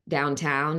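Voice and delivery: "downtown" in a slow general American accent; drawn-out American "downtown", full ow vowels. Shown as a demonstration. Actor contrasting accents for the host, slow American "downtown". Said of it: "Instead of, like, American would be".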